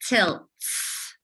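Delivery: "Tilts" said softly and slowly; modelled word. Shown as a demonstration. Teacher modelling "Tilts" for syllable counting. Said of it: "how many syllables do you hear?".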